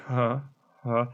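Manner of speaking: limp, embarrassed huff of a laugh; a hesitant, half-hearted "huh"; awkward huh. Retold or imitated. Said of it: "everyone ... looks at each other and goes".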